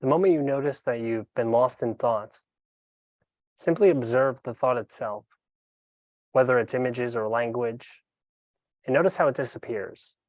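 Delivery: calm, unhurried meditation guide with long pauses; guided meditation. Acted. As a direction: guide them gently into breath awareness, leaving room between phrases.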